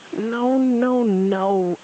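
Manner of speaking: high, long hooted noes; owlish hoot. A narrator's reading. Owl corrects muddled Tigger, hooting. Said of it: "Owl hooted".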